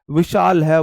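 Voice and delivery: teacher hammering विशाल है into memory. Shown as a demonstration.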